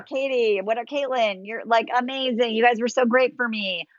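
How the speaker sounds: lightly flirty, acted gushing; playful flirting. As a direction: flatter them playfully. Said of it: "you could flirt with the audience".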